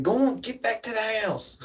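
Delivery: high, mock-stern order home; mock shooing dog. Reenacting chasing the dog home, high mock order. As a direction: send the little dog packing, half-laughing. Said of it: "I'm like".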